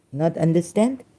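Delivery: normal talking voice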